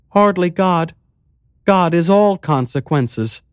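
high, light mayor voice; lifted voice for the calm, strange mayor; village mayor. Acted. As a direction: play the eerily cheerful mayor.

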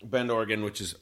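talking while eating strawberries; words round a mouthful of berries; mouth full. Real, not acted. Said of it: "I'm eating these delicious strawberries".

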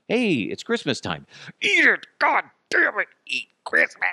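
shrill shouted demands, high and loud; hammed-up screaming holiday pusher; mock yell. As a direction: yell it like Christmas forcing itself on you. Christmas acted as aggressive pusher.

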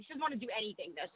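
normal talking voice

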